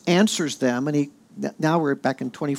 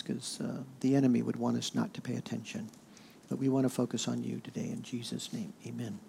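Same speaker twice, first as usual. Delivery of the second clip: softer, subdued praying voice; opening prayer; 3 semitones lower, 6 dB quieter than usual. Real, not acted. Pastor leads the group in prayer before teaching, subdued. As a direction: pray quietly, letting the voice sink toward the amen.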